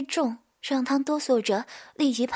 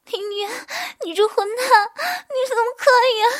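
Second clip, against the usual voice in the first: high sobbing scold, building louder; angry crying; 11 semitones higher, 6 dB louder, much faster than usual. Acted. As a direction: cry and curse him at once. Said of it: "边哭边骂".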